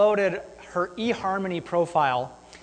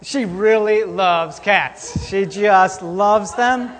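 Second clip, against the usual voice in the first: deadpan recap; 4 dB louder, much slower than usual. Real, not acted. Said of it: "slow deadpan recap".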